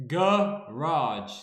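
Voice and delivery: garage broken loudly into GUH-RAHJ; American pronunciation attempt. Shown as a demonstration. Trying how Americans pronounce it, exaggerated syllables. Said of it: "how do Americans pronounce garage".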